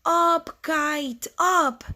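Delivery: high, controlled call; storybook shout. Acted. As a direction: call upward in separate high words. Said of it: "and shout".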